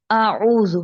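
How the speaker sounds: اعوذ with a clear throaty ain, not a glottal stop; clear ain sound. Shown as a demonstration. Teacher modelling the ain in اعوذ. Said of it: "حمزہ اور عین میں فرق رکھنا ہے".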